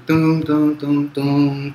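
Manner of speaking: sung-out "tum" bass steps; vocalised bass movement on "tum"; imitated bass line. Shown as a demonstration. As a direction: mimic a walking bass with the mouth. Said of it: "fazer aquele movimento".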